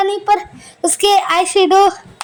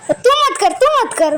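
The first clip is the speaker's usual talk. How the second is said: higher-pitched imitated objection; retold protest; 5 semitones higher than usual. Woman stopping him from setting her eyebrows, mock protesting. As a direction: wave the helper off, in mock alarm.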